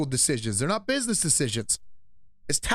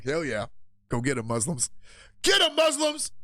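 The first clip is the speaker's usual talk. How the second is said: cheering on. Retold or imitated. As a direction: egg them on gleefully. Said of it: "I'm like".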